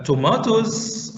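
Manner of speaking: "tomatoes" with a long AH, to-MAH-toes; British-style "tomatoes", stretched middle vowel; British pronunciation. Shown as a demonstration. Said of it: "tomatoes is the pronunciation of the British accent".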